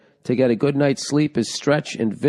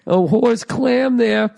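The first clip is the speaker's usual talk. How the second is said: higher, slow, drawn-out horse clam; repeating the joke phrase, higher and slow; savoring the phrase; 8 semitones higher, much slower than usual. Retold or imitated. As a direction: stretch out "horse clam" with glee.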